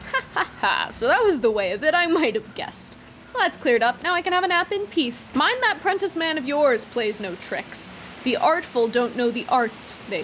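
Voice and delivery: put-on chuckling, smug old cook; lightly voiced sly old man. Noakes voice, old cook laughing.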